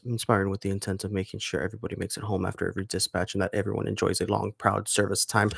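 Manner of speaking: understated radio-intro read; a touch of announcer, softly delivered. Shown as a demonstration. Finishing the show intro despite sore throat, light radio voice. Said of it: "let me put on my radio voice".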